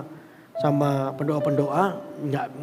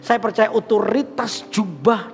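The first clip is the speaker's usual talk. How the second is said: loud, emphatic preacher's exhortation; forceful preaching; 2 semitones higher, 5 dB louder than usual. Acted. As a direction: press the congregation with punched key words.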